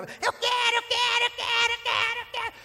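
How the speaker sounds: very high, loud tantrum whine; whining child. Acted. Preacher voicing the boy's tantrum, high whining chant. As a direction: wail it like a spoiled kid on the floor.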